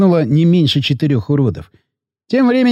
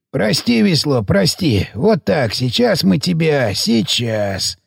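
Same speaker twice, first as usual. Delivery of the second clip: tender apology; slower than usual. Acted. Technician tenderly speaking to his dead comrade's head. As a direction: gently soothe a lost friend.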